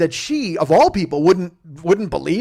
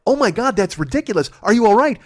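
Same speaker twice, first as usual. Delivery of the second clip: excited shock; 6 semitones higher, 6 dB louder than usual. Retold or imitated. Imitating shocked friend reaction.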